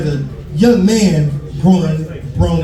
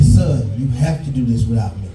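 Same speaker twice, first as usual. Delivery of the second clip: lightly voiced mother; 5 semitones lower than usual. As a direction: gently break the news as his mother, lower.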